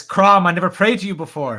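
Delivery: lightly acted warrior's prayer; a hint of a hero addressing his god; Conan. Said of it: "before he says".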